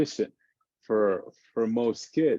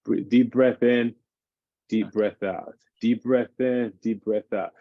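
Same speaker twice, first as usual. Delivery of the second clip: calming breathing cue. Shown as a demonstration. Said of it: "I tell them".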